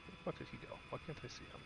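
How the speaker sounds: whispering. Real, not acted. Lost sight of the helicopter.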